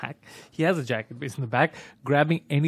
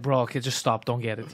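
tired quiet plea; 7 semitones lower, 7 dB quieter than usual. Retold or imitated.

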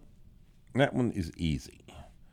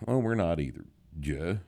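normal talking voice

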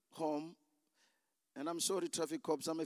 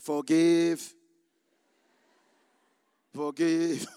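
firm command; 3 semitones lower, 11 dB louder, much slower than usual. Retold or imitated. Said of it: "the Holy Spirit said".

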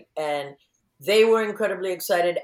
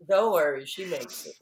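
laughing retelling. Retold or imitated. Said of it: "I go".

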